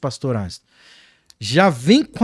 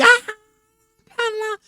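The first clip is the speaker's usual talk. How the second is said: imitated outburst. Imitates people overflowing with emotion.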